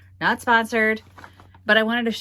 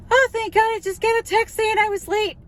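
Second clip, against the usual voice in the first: relieved exclamation. Retold or imitated. To the cashier after rushing up, high relieved gush. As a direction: blurt it out like you've been saved. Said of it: "I went".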